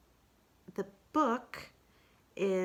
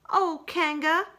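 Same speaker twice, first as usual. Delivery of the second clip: much higher, louder, slow Pooh; 10 semitones higher, 8 dB louder than usual. Acted. Pooh starts to charm Kanga, slow and higher. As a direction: draw out Kanga's name sweetly.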